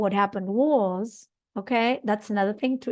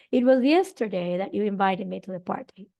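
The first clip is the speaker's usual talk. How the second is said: "yesterday" carried as the focus; stress on yesterday. Shown as a demonstration. Teacher marking the time as focus, stressed. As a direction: put the weight on "yesterday". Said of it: "The emphasis on the time".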